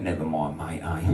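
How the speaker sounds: soft consoling. Retold or imitated. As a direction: hush it as if calming a crying man. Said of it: "I went".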